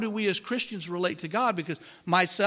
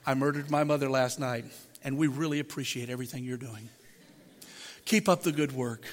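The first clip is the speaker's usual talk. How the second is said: mumbled; 6 semitones lower, 5 dB quieter than usual. Retold or imitated. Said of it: "but he'd mumble it".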